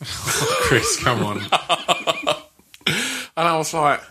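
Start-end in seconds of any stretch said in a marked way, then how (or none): 0.0-2.4 laughing out the name, pitch jumping up; can't hold the giggle in. Real, not acted. Laughing at a colleague who keeps laughing. Laughing at widow's dead husband photo.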